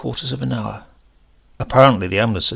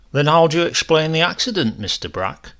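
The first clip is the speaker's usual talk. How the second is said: official policeman; 5 semitones higher, 3 dB louder than usual. Retold or imitated. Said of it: "Very official, the questioning".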